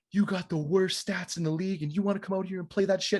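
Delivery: mock-aggressive, needling accusation; imitated angry man. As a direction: mimic someone getting in your face. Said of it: "he's mad at me for yelling".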